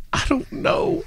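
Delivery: high squeaky laugh through the words; giggling helplessly while answering. Retold or imitated. To the woman, flustered, laughing through the words.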